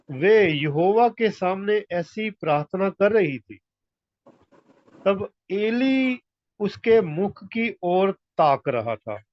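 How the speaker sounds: slow, drawn-out verse reading; scripture reading. A narrator's reading. Preacher reading of Eli watching Hannah pray, slow scripture reading. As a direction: read it out phrase by phrase, slowly.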